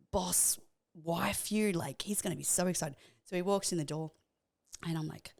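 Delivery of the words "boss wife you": a proud little whisper; whispered self-praise. Retold or imitated. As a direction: whisper it, pleased with yourself.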